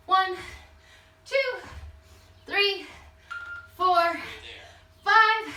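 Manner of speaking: high, punched count during jump squats; calling out reps. Real, not acted. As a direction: call each rep out with effort. Coach calls out exercise reps while jumping.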